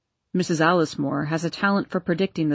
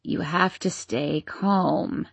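croaking; 3 semitones lower, 4 dB quieter, slower than usual. Acted. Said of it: "croaked Missus Alice Moore".

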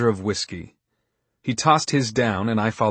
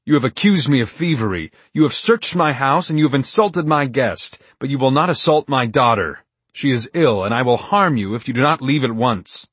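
fierce, louder father's warning; dangerous; 4 semitones higher, 5 dB louder than usual. Acted. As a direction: threaten him in a hard voice. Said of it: "His voice was so dangerous".

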